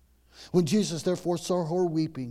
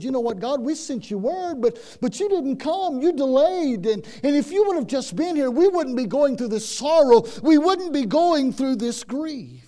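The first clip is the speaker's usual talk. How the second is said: accusing Martha; 9 semitones higher, 9 dB louder than usual. Acted. Martha accusing Jesus, voiced.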